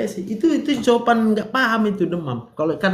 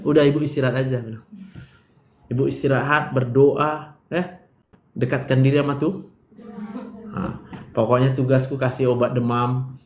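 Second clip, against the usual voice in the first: lightly voiced calm doctor, a bit lower; mock reassuring doctor; 5 semitones lower than usual. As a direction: soothe the patient like a tired doctor. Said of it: "Ah, gitu jawabnya". (dokter menenangkan pasien, agak rendah dan kalem)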